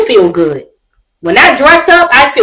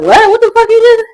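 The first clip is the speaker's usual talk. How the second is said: stern mother; 8 semitones higher than usual. Retold or imitated.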